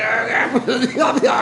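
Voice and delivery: laughing under crushing weight; strained laugh. Real, not acted. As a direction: laugh as the chest gets squeezed. Laughing while being squeezed.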